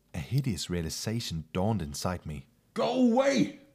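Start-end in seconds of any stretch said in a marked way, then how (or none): 2.7-3.5 very high, loud, high-pitched shout. Narrator reading a first-person story, the teller facing eerie laughter: shouting. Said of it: "I shouted".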